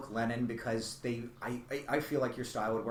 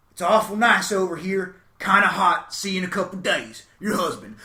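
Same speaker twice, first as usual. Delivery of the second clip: punchline delivery; 4 semitones higher, 8 dB louder than usual. Retold or imitated. Joke punchline letter voiced.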